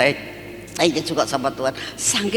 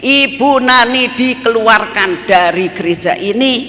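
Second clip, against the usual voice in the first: defiant retort; 5 dB louder than usual. Retold or imitated. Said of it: "Jadi akhirnya saya bilang".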